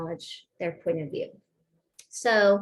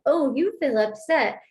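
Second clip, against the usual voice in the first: sarcastic tone; 3 semitones higher, 4 dB louder than usual. Shown as a demonstration. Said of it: "not gonna say it in the tone I'm saying it".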